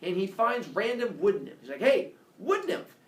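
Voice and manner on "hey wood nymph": high, loud, drawn-out call; hailing. Acted. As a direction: call out slowly to get attention. Apollo hails a wood nymph.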